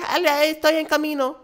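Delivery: hammed-up Spanish-speaking lady; Spanish reply. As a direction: rattle it off in Spanish. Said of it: "You can't be like".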